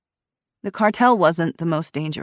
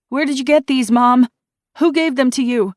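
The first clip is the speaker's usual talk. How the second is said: higher, louder frantic questioning; frantic demand; 8 semitones higher, 7 dB louder than usual. A narrator's reading. Daughter to her drugged mother, frantic. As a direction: demand an answer, desperate.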